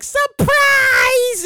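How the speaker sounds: high, shouted mock surprise; mocking celebrity. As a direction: chirp it like a coy influencer. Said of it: "she's like".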